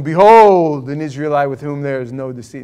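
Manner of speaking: lightly put-on English accent, grand first word; a touch of theatrical English. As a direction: proclaim it in a mock English accent. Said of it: "I almost hear this now with an English accent".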